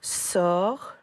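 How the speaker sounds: Sorcier split into sor and cier; syllables spelt out. Shown as a demonstration. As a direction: sound out Sorcier slowly. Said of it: "deux syllabes écrites".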